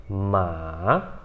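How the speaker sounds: "ma" falling low, then rising; long "ma" that sinks and climbs back; third tone, dipping. Shown as a demonstration. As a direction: dip "ma" down before bringing it up. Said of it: "você vai descer".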